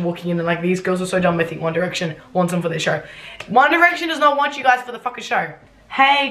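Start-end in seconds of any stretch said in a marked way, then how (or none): 3.5-5.5 scornful outburst. Real, not acted. Ridicules her story's fantasy. 5.9-6.3 high, slightly raised call; narrated shout. A narrator's reading. Charlie running towards the boys, high acted shout. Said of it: "Charlie shouted".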